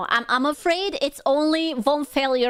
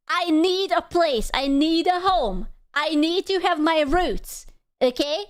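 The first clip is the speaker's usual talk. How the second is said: mock passionate plea; 3 semitones higher than usual. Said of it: "I'm passionate".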